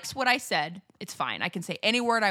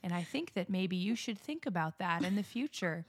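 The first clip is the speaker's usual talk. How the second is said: put-on Southern accent; 5 dB quieter than usual. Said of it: "from the deep south where I'd be like".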